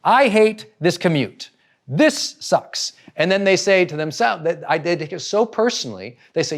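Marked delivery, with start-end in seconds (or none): 0.0-2.9 mock driver rant. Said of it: "they completely freak out".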